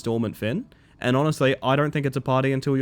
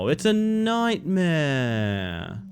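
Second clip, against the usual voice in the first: slow dramatic drawl; 2 semitones higher, much slower than usual. Acted. Slow dramatic reaction in game.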